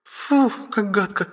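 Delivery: put-on slow squeamish girlish ew; disgusted. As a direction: wrinkle your nose at it. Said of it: "сморщила носик Ая".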